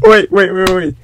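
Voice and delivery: high, loud laughing "wait, wait"; exasperated interrupting. Real, not acted. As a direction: cut it off in disbelief.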